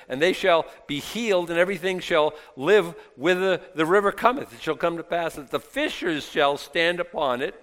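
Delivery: preacher reading scripture aloud. Acted. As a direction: read the verse out to a congregation. Reads scripture aloud to congregation.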